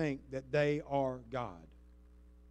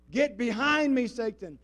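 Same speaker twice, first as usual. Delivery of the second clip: rebuke; 8 semitones higher, 7 dB louder, slower than usual. Acted. Repeating the rebuke.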